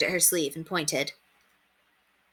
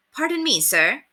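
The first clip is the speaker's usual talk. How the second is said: higher, insistent address; forceful; 7 semitones higher than usual. Acted. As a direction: demand his attention. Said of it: "rather forcefully".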